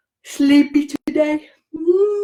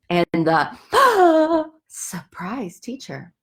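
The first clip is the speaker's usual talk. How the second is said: mock gasp; much slower than usual. Dramatic title reading.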